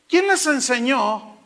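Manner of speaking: slow, loud rebuke; preacher as John the Baptist rebuking the crowd; stern prophet. Acted. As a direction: challenge them slowly, like John the Baptist. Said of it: "es que le hago así".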